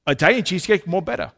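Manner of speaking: imitated Italian waiter's accent. Preacher quoting the waiter to the congregation, Italian accent. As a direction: do your best mock Italian accent. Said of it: "do my best Italian accent".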